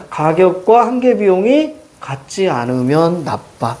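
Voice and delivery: slow, deliberate read-out with stretched endings; demonstrated reading. Shown as a demonstration. Teacher models reading the next line for students, slow demonstrated reading. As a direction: draw out the condition, then the verdict. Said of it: "그러면 밑에 어떻게 읽어?".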